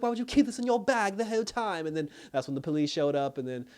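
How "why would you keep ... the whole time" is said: high, exasperated imitation of her question; retold indignation, pitched way up; imitated indignant woman. Woman confronts him over the scarab in his bag, imitated indignation.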